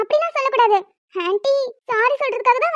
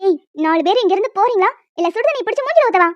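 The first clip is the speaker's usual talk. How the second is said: threatening mother; 3 semitones lower than usual. Acted. Mother threatening the costumed group, angry. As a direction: drive them off.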